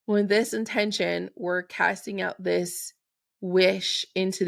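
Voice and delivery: slow, measured casting of an intention; very slowly. Shown as a demonstration. Host casting an intention for listeners, slow and measured. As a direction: space each phrase out so listeners can remember it. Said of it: "I'm going to say this very slowly".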